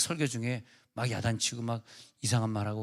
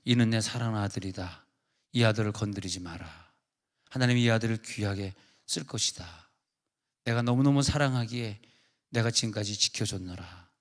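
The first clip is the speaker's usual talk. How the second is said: low, measured, solemn pronouncement; prophetic voice of God; 3 semitones lower than usual. Retold or imitated. God defends his beloved son in prophecy, low and solemn. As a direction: declare it as God speaking, pitched down with pauses. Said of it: "예언 기도가".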